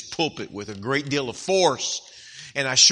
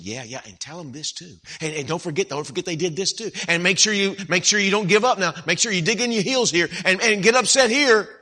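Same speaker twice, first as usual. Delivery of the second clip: tempting devil; 4 semitones higher, 4 dB louder than usual. Retold or imitated. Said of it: "the devil is over there saying".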